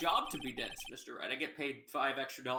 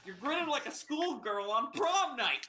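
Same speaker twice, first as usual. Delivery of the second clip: judge voice; 10 semitones higher, 4 dB louder than usual. Acted. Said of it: "Sorry, I'm eating popcorn".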